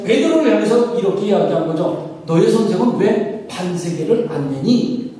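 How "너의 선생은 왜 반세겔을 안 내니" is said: a mild, pointed demand why he hasn't paid; lightly voiced challenging question; demanding challenge. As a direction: press the question like an accuser. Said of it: "따지듯이 물어본 거예요".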